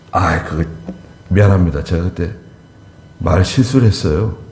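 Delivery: humble apology. Shown as a demonstration. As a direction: apologise sincerely, head bowed.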